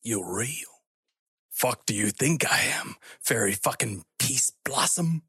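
irritated Australian creature; peevish Aussie, not shouted; pissed-off Aussie. Acted. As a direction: grumble it in an Australian accent. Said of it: "angry tone of a pissed off Aussie".

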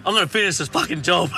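nah, I'm finishing this, said with a yell; stubborn shout. Retold or imitated. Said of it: "I'm like".

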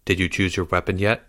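hushed, low question; soft conspiratorial tone. A narrator's reading. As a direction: ask secretively. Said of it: "Leo asked in a low voice".

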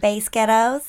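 put-on light American accent, Space Ghettos sounding like a band's name; trying an American accent. Shown as a demonstration. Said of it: "what's an American accent?".

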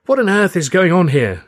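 high, loud indignant woman; outraged cry. A narrator's reading. Mother finds soap everywhere, high indignant cry. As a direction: cry out, demanding an explanation. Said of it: "she cried".

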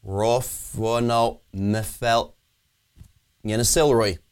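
slow, syllables of the line reversed; backwards talking. Shown as a demonstration. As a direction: speak the sentence in reverse. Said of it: "could you give us an example of some backwards talking?".

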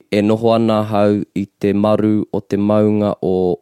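measured, formal recital of a pepeha; formal recitation. Shown as a demonstration. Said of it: "it might sound like".

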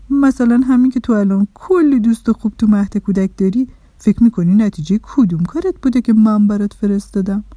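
quizzing little man. Acted. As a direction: put the question emphatically to a child.

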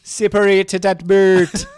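high, loud put-on Jamaican accent; mock Jamaican accent. Long-lost cousin recalls the beach, mock Jamaican accent.

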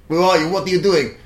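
a woman finding a stranger asleep in her front room; startled homeowner. Retold or imitated.

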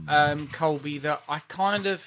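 a small stifled burp mid-sentence. Real, not acted. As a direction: swallow a burp between words. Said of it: "What was that little noise".

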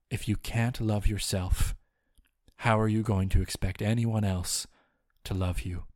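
mock-heartfelt film monologue; reading Diane Keaton's monologue. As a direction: read it like a tender movie mentor. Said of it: "She says".

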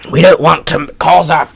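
put-on mild stab at a British accent; attempted British accent. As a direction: quote him in a slightly put-on British voice. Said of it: "like, a British accent".

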